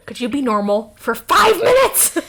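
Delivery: rising to a loud, high outburst; hammed-up exasperated plea; mock exasperation. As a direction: burst out on the last words, comically fed up. Exasperated plea in acted exchange.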